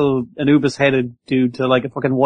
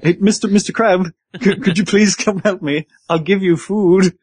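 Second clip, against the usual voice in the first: higher-pitched, mock-polite begging; polite plea; 4 semitones higher than usual. Sword begging a crab for help, politely pleading. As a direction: plead courteously, a little higher, playing the stranded sword. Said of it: "I need to be politer".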